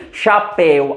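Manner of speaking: chapéu with the weight on "péu"; sílaba tônica destacada. Shown as a demonstration. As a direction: slowly show the strong final syllable of chapéu. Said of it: "a mais forte, né? A última". (chapéu devagar, com força na última sílaba)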